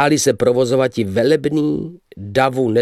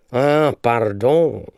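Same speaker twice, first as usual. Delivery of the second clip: slow, affected "Ah, pardon"; foppish apology; much slower than usual. Acted. The young man to the card players, in a slow dandy voice. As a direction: drawl the French like a dandy.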